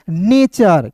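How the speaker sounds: नेचर with a "char" ending; demonstrated pronunciation. Shown as a demonstration. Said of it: "टी यू आर ई को दोस्तों पढ़ेंगे चर".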